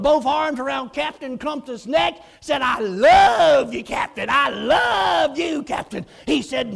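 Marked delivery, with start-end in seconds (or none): 2.6-6.0 put-on loud, slow drunken I love you; retold happy drunk; drunk declaration. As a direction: hang on the captain's neck and gush. Drunk man hugs captain.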